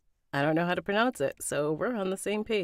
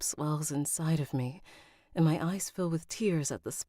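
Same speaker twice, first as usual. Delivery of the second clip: story narration. A narrator's reading. Narrator telling of a captive hoping for rescue, composed story narration. Reads a novel aloud.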